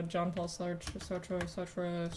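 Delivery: groping for how Sartre is said; fumbling French name. Shown as a demonstration. Streamer unsure of an author's name, trying it softly. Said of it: "how do you pronounce his last name again?".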